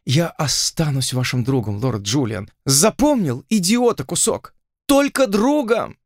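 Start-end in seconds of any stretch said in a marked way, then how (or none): 2.7-6.0 scolding. Acted. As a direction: snap it at him as a warning. Heroine scolds pinned lord.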